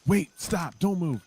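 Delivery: wife's alarmed warning. Retold or imitated. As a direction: stop him fast before he swallows. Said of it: "she was like".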